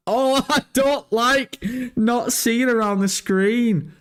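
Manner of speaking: high, drawn-out laughing protest; anxious squeal. Real, not acted. Streamer uneasy at not seeing round the screen, anxious squeal. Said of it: "I've got weird anxiety".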